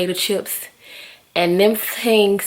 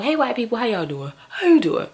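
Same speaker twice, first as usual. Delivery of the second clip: bright, high, overly friendly hello; mock cheery greeting; 6 semitones higher than usual. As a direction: play a gushing welcome, jumping up high on the last line.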